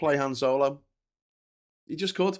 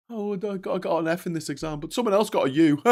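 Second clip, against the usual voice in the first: higher, lightly put-on smug excuse; mock excuse; 6 semitones higher than usual. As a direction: wave off the failure like a cocky kid. Mocking a Brexiter's exam excuse.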